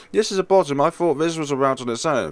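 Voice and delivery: high, loud laughing words; laughing while talking. Real, not acted. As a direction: talk through the laughter. Laughing at own mistake.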